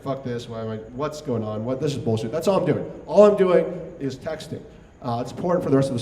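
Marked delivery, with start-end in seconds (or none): 0.0-2.3 bitching under breath. Retold or imitated.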